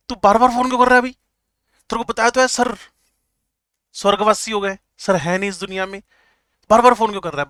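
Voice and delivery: put-on irritated shout at the pestering kid; annoyed teacher. A fed-up madam snaps at the repeatedly calling kid. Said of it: "madam को गुस्सा आ गया".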